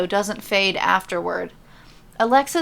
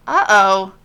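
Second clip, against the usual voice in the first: uh-oh; 10 dB louder than usual. Acted. R-Truth realizes he's in trouble.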